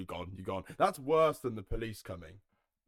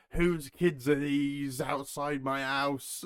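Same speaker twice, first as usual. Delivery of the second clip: slow, high, put-on voice of an indignant neighbour; outraged Karen; 5 semitones higher, 6 dB louder, much slower than usual. Mocking a Karen posting on the town Facebook page, drawn out and indignant. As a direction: drag it out like a scandalised local mum. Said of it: "Karens posting stuff like".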